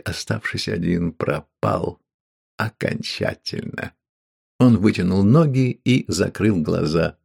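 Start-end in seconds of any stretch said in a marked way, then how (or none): 1.1-3.9 despairing whisper. Acted. Man alone despairs.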